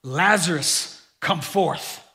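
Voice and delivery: slow, drawn-out proclamation without yelling; retold shout. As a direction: stretch out the command solemnly, a restrained call. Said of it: "Then Jesus shouted".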